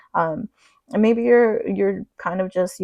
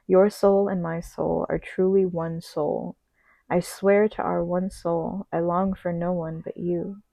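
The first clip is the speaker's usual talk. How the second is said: poem reading. Acted. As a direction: read it like a love poem, unhurried.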